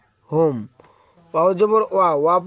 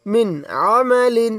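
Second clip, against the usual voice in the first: linked reading; 2 semitones higher, much slower than usual. Shown as a demonstration. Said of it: "বানানের মতো করে দিয়ে পড়লাম".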